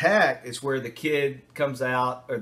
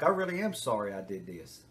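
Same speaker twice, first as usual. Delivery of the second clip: real remorse; 3 dB quieter than usual. Retold or imitated. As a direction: sound truly sorry. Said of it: "the real remorse".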